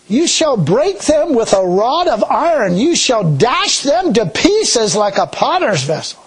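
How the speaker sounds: slow, weighty scripture read. Acted. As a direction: read the verse slowly and solemnly. Reads scripture.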